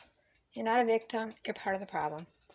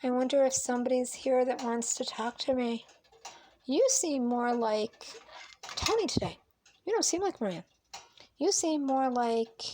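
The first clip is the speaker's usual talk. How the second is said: imitating a therapist coaxing out alters; mocking therapist; 2 semitones higher than usual. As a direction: lightly play a condescending therapist. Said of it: "So your doctor can say".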